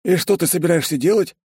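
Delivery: high, wheedling character voice; unnaturally insinuating. A narrator's reading. Secretary probing the boss's plans, high and insinuating. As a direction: slip the question in high and coaxing. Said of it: "неестественно вкрадчивым голосом поинтересовался Бен".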